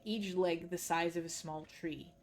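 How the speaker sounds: steady, measured storyteller read; story narration. A narrator's reading. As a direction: carry the listener through the dark scene. Reads a dark fantasy story aloud.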